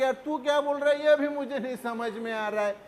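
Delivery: lightly acted confused complaint; acted bafflement. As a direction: act out a puzzled listener, rattled off fast. Acted baffled reply to foreigner.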